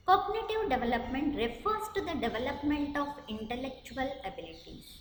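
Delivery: each word spelled out slowly for note-taking; slow dictation. Acted. Teacher dictating a definition to students, slow and deliberate. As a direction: read it slowly so students can write.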